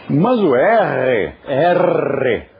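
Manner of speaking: R as a rolled Italian r. Shown as a demonstration. Teacher showing the Sanskrit R to students, rolled. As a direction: roll the R like an Italian. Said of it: "o R italiano".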